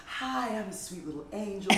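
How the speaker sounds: lightly voiced sweet angel, softly amused; teasing mock-innocent greeting; sweet little angel. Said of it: "you have always been like".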